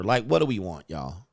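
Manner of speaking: ordinary talk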